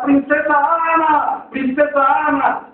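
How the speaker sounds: acted cry, easing slightly on the repeat; calling out. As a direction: call for the lost princess. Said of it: "empezó a gritar".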